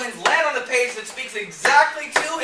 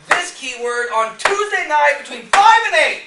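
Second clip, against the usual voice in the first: louder, higher, getting carried away; fired up; 7 semitones higher, 7 dB louder than usual. Real, not acted. Trainer driving the targeting point home to a class, fired up. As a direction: build to an emphatic, worked-up peak. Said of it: "I'm getting a little fired up".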